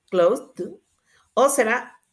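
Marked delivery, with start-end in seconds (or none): 0.1-0.7 "Closed" rising, last consonant released apart; candidate ending demo. Shown as a demonstration. Teacher repeats an option for students, "Closed" with detached ending. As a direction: split the ending off "Closed" as a question. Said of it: "cómo se pronuncia el pasado".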